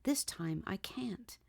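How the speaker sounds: sinks into a frightened whisper at the end; fading into a shaky whisper of refusal; trembling, teeth chattering. Acted. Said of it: "through chattered teeth".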